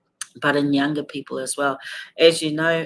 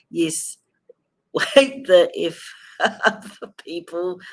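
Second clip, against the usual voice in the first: laughing; 3 semitones higher, 4 dB louder, slower than usual. Real, not acted. Laughing repeat of swearing.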